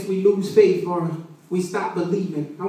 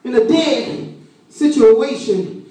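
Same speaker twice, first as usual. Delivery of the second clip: raised, emphatic sermon voice; preaching; 5 semitones higher than usual. Real, not acted. Preacher explains Jesus weeping to the congregation, preaching.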